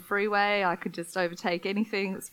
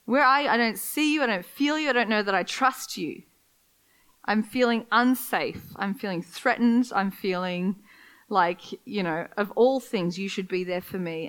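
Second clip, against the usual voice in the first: pleading prayer. Retold or imitated. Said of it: "It's like".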